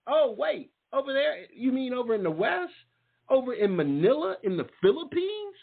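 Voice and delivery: imitating a son's growing surprise; surprised son. Son asks the father, surprised.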